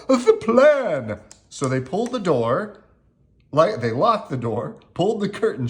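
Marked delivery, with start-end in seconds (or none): 0.1-1.2 raised, louder urgent call; urgent cry. A narrator's reading. Owl reminds friends of the hiding plan, urgent cry. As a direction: cry it out to rally the others. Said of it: "cried Owl".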